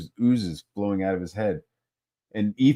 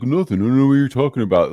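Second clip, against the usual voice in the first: quick, slightly raised mock innocence; playing dumb; 3 semitones higher, 3 dB louder, much faster than usual. The speaker denying he is playing games, mock innocent. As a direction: brush it off hurriedly, imitating feigned cluelessness. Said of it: "plays dumb".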